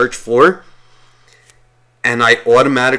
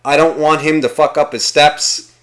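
higher-pitched mock priest giving orders; imitated priest, raised voice; imagined priest; 4 semitones higher, 4 dB louder than usual. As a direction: play a self-important priest instructing from the altar. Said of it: "like, the priest being like".

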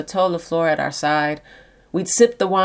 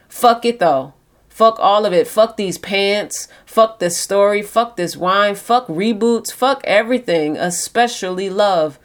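angry. Acted. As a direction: spit out each curse in anger. Drunk bitter outburst at love.

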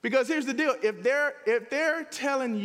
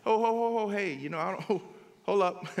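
chuckling, awkward hold-up; a light laughing pushback to a gossiping friend; laughing brush-off. Retold or imitated. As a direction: laugh it off while backing out of the talk. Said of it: "Are you able to say stuff like that?".

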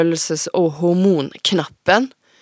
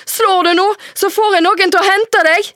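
much higher, louder warning; shrill threat; 14 semitones higher, 4 dB louder than usual. Acted. Mother threatening her daughter, shrill and loud. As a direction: threaten to have her fetched.

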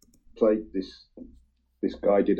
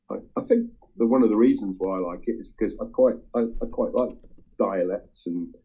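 ordinary talk, nothing marked

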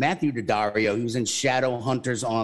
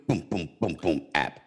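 put-on weird accent; 8 semitones lower, 3 dB quieter than usual. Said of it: "That was the worst accent".

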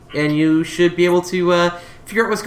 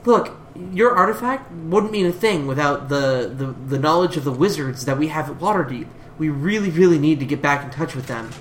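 Her voice; 4 semitones lower than usual. Acted. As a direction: gently insist in a lower register. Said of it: "She comes in".

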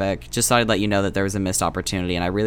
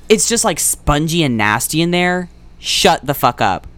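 disgusted rant; 4 semitones higher, 5 dB louder than usual. Real, not acted. Disgusted rant about bird bones.

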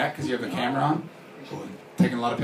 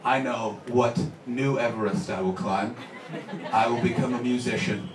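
self-important celebrity; 4 semitones lower, 5 dB quieter than usual. Acted. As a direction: declare it like a pompous star. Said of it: "when celebrities reach that point and they go".

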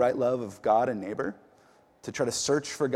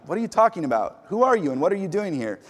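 guard yelling; 5 semitones higher, faster than usual. Retold or imitated. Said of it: "the guard yells down".

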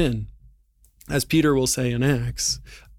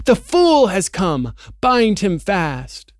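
higher, louder and slow, gloating witch voice; triumphant witch; 6 semitones higher, 6 dB louder, slower than usual. Acted. The White Witch ordering the hags to bind Aslan, slow gloating shout. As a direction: draw out the command like a gloating sorceress. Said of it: "she cried".

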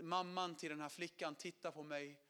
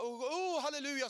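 higher, louder exclamation; joyful halleluja; 7 semitones higher, 6 dB louder than usual. Retold or imitated. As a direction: burst out in praise. Preacher exclaims, quoted.

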